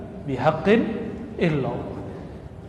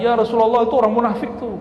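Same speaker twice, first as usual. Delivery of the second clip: accusing hypocrite; 5 semitones higher, faster than usual. Retold or imitated. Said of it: "orang munafik di Madinah mengatakan".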